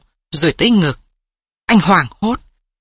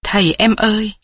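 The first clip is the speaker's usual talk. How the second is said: sugary call; 3 semitones higher than usual. A narrator's reading. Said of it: "Cái thứ tiếng ngọt như đường của nó gọi anh".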